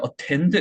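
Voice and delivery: "attend" with too strong an opening vowel; mis-stressed attend. Shown as a demonstration. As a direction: overdo the first syllable of "attend". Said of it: "이렇게 해서는 안 되겠죠". ("attend"의 앞 모음을 잘못 강조)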